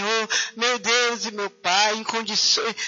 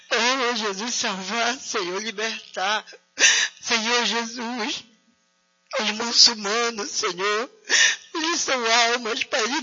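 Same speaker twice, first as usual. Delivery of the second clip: tearful prayer. Real, not acted. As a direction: voice breaking into tears. Prayer for persecuted, voice breaking.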